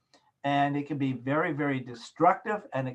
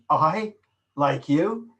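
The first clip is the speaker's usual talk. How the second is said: louder, mocking "I like you" with a rising end; sarcastic; 4 dB louder, much slower than usual. Shown as a demonstration. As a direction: say it so it means the opposite. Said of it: "That's more sarcastic".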